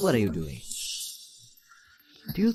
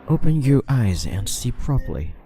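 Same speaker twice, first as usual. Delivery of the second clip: stern; 5 dB louder than usual. Acted. Repeats the order more forcefully.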